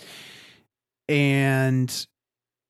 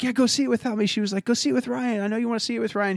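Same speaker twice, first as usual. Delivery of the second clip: put-on lightly raised, gentle girlfriend voice; a hint of her sweet encouragement; mildly high voice of an understanding girlfriend; kind girlfriend; 8 semitones higher, much faster than usual.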